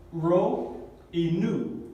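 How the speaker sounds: ro and nu said slowly and distinctly; name ro with an R, then nu with an N, unhurried; careful letter names. Shown as a demonstration. Teacher correcting a likely misreading, careful letter names. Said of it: "no se pronuncia P".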